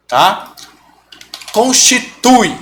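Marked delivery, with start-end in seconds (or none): 1.5-2.6 Constitui said slowly, syllable by syllable. Shown as a demonstration. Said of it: "Qual que é o som mais forte?". (Constitui, devagar, sílaba por sílaba)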